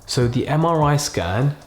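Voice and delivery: slow, gentle, quiet delivery with pauses; doctor bad news. Shown as a demonstration. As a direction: break bad news softly and slowly. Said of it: "the main aim here is to be really slow, kind of really use a quiet tone".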